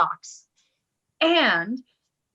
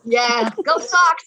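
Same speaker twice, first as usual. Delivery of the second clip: sarcastic, slow go Sox; mock agreement; slower than usual. Answering her sister's heckle, sarcastic. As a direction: drawl it back with sarcasm. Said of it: "Go Red Sox".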